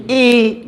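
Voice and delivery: I said the English way, like "ai"; English letter I. Shown as a demonstration. Teacher models English "I" for students. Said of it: "Só que em inglês, como é que é?".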